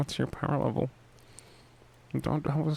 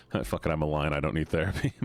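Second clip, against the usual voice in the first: low, mock-tough declaration; deep and solemn, playing the lion; 10 semitones lower, faster than usual. Lion persona continues.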